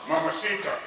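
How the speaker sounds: mock Spanish, building to loud shouts; frantic Spanish son. Cook's son reporting the crazy gunman, mimicked frantic Spanish. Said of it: "to tell Rosita and Ramona".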